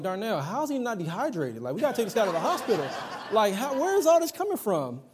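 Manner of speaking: mock disbelief. Dad to his wife about their crying son, laughing disbelief. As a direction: retell your own amazement with a laugh. Retold exasperated question to wife.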